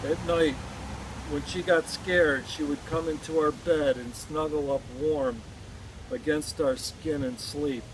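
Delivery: measured poem reading with pauses between phrases; poem recitation. Acted. Poet mourning a girl killed in war, poem recitation. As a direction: recite it line by line, letting each phrase settle.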